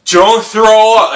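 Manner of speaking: loud, high, drawn-out plea to yourself; urgent self-command. Retold or imitated. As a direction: order yourself firmly in the mirror. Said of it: "you stare at yourself in the mirror".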